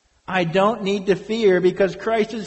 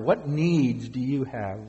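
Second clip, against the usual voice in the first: slower, letting the question sink in; a slower, weighing repeat; slow, reflective repeat; 3 semitones lower than usual. Shown as a demonstration. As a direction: ask again slowly so they dwell on it. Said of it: "Dwell upon that".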